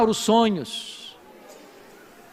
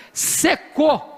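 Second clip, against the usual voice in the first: drawn-out secou; 6 semitones higher than usual. Shown as a demonstration. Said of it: "eu preciso botar legenda".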